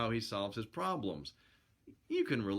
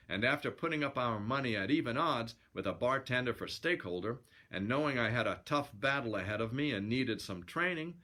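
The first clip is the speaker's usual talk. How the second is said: lively yarn-spinning narration; storyteller reading aloud; story narration; 2 semitones higher than usual. A narrator's reading. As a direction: read it as a colloquial sailor's yarn.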